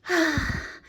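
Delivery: sigh. Acted. Cat sighs at frog.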